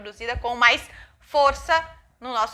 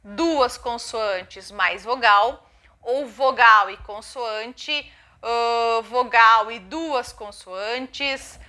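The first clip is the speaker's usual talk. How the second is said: slow careful listing; 3 dB louder, much slower than usual. Shown as a demonstration. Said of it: "introduzir sílabas do tipo".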